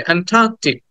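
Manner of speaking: "অ্যান্টার্কটিক" with the middle vowel held; "অ্যান্টার্কটিক" as "aen-TAAK-tik", long second syllable; lengthened "taa". Shown as a demonstration. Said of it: "টাটাকে একটু টেনে বলতে".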